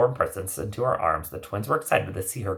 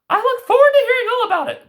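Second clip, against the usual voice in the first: laughing grandmother; 9 dB louder, faster than usual. Acted. Grandmother laughs as she speaks.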